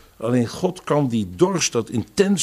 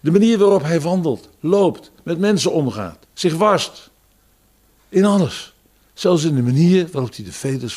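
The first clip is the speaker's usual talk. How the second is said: rising emphasis; 5 semitones higher, 4 dB louder than usual. Real, not acted. Preacher building emphatic list.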